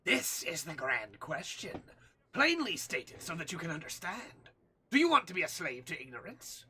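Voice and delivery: declaring doom like a crackpot scientist; mad scientist. Acted. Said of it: "let's go full, like, mad scientist".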